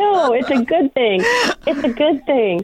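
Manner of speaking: high-pitched tearful reassurance. Real, not acted. Fan tells her hero crying is good, tearfully. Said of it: "I really wish I didn't make people cry".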